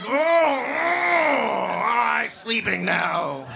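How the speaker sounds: food coma. Retold or imitated. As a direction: drift off after a huge meal. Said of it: "and you're like".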